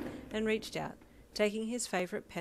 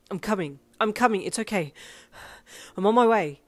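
loud, urgent reassurance while running; out of breath from running; panting; 2 semitones higher, 10 dB louder than usual. A narrator's reading. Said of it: "he panted".

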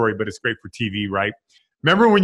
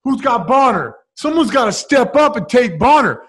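higher and louder with each name, ending loud; building mock call-out; 10 semitones higher, 4 dB louder than usual. Pierce calling out teammates to guard Bonner, rising taunt. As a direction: rile them up one by one. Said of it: "It's like".

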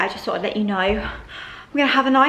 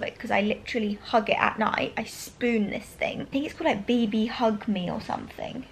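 whisper; 6 dB quieter than usual. Real, not acted. Whispering in bed early morning.

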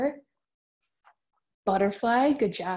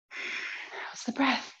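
soft whispered check-in; 2 semitones higher, 8 dB quieter, slower than usual. Real, not acted. Teacher whispering to kids mid-pose. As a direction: whisper it gently.

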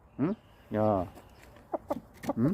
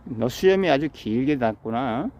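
usual speaking voice

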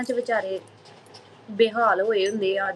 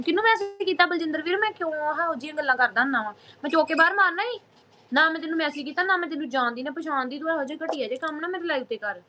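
mock scolding; 5 semitones higher than usual. Real, not acted. Scolding a viewer over messages.

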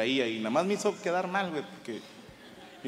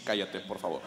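serious hush; 9 semitones lower, 9 dB quieter than usual. Retold or imitated. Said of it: "todo serio".

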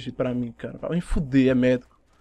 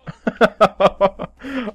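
loud laugh; 5 semitones higher, 4 dB louder than usual. Real, not acted. Laughs at enemy player.

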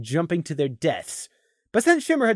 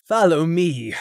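croaked; slower than usual. Acted. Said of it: "Shimmer croaked".

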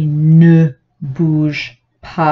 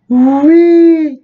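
firm yes; 10 semitones higher, 7 dB louder than usual. A narrator's reading. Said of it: "dit le monsieur".

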